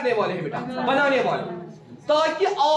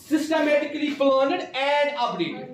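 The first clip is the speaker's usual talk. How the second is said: slow dictation; much slower than usual. Shown as a demonstration. Teacher repeating definition slowly.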